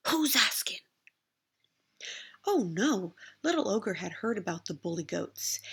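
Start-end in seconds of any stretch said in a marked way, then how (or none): 0.1-0.8 high rude goat retort. A narrator's reading. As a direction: snap back rudely. Goat's rude reply.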